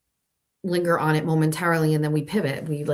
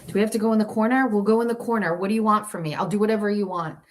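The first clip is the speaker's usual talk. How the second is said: exasperated giving in; 3 semitones higher, much faster than usual. Real, not acted. Bargaining in exasperation with the light.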